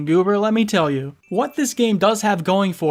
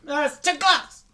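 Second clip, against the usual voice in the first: startled; 7 semitones higher than usual. Acted. Viewer leaned in too close.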